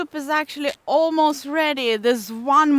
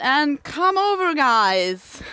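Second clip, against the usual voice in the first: raised, higher call to the group; yelling across the room; 3 semitones higher, 3 dB louder, slower than usual. Real, not acted. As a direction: shout for everyone to come. Calls the others to eat.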